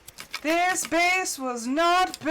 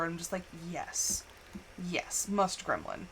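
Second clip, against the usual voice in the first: gremlin voice; 8 semitones lower, 9 dB quieter than usual. Retold or imitated. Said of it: "the gremlin energy just, it, like, takes over".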